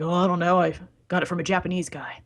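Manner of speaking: evasive peddler, trailing into a whisper; shady seller's hushed mumble; Sal. Acted. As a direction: shrug it off furtively. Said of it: "He's like".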